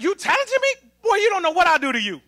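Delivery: incredulous high question, then a cocky warning; trash-talk back like an insulted ballplayer; high-pitched mock disbelief turning to threat; sarcastic comeback. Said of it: "It's the sarcasm. It's like".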